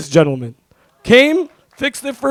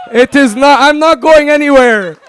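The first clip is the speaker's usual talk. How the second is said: excited; 6 semitones higher, 6 dB louder than usual. Real, not acted. Joking defiant speech at wedding.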